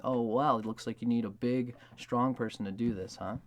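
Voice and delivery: a playful jab at a partner; cheeky tease. Pretend. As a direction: poke fun at your partner cheekily. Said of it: "who's being cheeky by saying".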